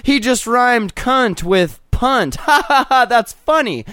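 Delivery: high, slow, dopey fan voice laughing along; mocking dumb fan. Podcaster mocking a singer's fans, dopey laughing voice. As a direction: play a dim fan cackling at a cheap rhyme. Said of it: "They're like".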